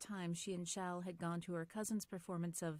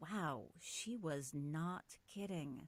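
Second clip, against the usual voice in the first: ordinary delivery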